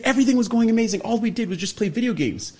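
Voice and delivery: high, loud, giggly bragging; laughing excitedly. Retold or imitated. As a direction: gush about the best job ever through laughs. Friend voiced, laughing about dream job.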